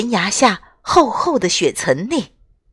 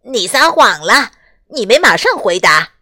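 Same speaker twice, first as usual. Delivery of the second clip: loud accusing; 3 dB louder than usual. Acted. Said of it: "雪宝指着科斯托夫大声说".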